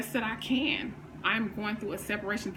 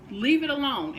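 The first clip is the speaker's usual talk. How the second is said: "Leave it alone" said firmly, a touch less pushed; firm repeat; 4 semitones higher than usual. Real, not acted. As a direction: settle the point, steady and firm. Repeats the command more evenly.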